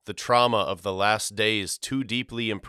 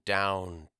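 fading away; 3 semitones lower, 6 dB quieter than usual. A narrator's reading. Sinking into despair, repeated word.

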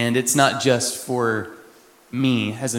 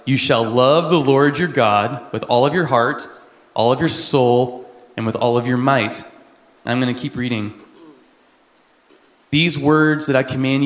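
measured Bible reading; scripture reading. Acted. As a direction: read it like a proclamation. Reads Deuteronomy passage aloud.

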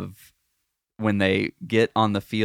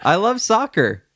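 sarcastic; 10 semitones higher, 5 dB louder than usual. Acted. Echoing ironic exclamation.

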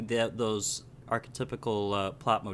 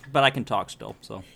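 chewing while talking. Real, not acted. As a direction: mouth full of apple. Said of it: "Excuse the chewing".

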